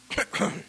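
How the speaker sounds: strained throat-clearing noise. Retold or imitated. Singer onstage failing to sing, throat clearing. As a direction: clear the throat hard, trying to get going.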